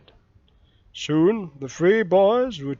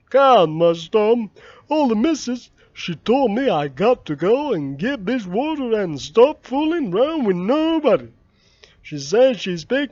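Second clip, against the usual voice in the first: higher and louder worried voice; Jim, anxious; 4 semitones higher, 4 dB louder than usual. Acted. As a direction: protest nervously, scared of the missus.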